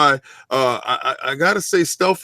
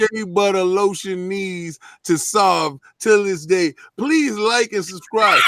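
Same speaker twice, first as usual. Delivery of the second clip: put-on slow Jamaican accent reading; 3 semitones higher, slower than usual. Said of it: "read it with that Jamaican accent".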